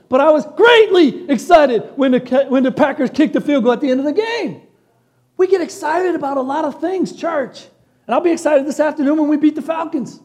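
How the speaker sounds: like a fan on his feet; excited fan. Acted. Pastor to the church, cheering his team's wins.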